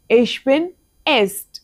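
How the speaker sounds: slow repeat stressing bin. Shown as a demonstration. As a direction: say it again for copying.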